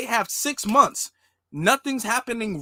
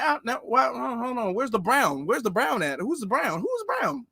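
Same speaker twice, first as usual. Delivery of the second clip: hammed-up grader spotting a forbidden word; strict teacher; 3 semitones higher than usual. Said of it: "being all like".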